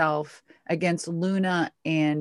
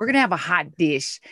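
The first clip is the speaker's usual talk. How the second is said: playful, put-on Minnesota accent; mock Minnesota accent. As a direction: ham up the Minnesota vowels. Plays up Minnesota accent for laughs.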